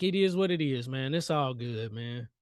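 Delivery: low, easygoing shrug; understated chill resignation; resigned calm. Retold or imitated. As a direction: let it go coolly. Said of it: "I'm like".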